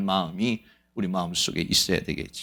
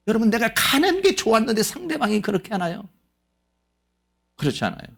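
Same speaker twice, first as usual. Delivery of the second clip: normal talking voice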